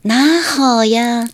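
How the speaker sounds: put-on high, drawn-out old Shanghainese greeting with Suzhou lilt; old Shanghainese, Suzhou accent. Shown as a demonstration. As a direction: greet loudly and slowly in Suzhou-tinged Shanghainese. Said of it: "老式的上海话是带苏州口音的". (带苏州口音的老式上海话问好，高而拖长)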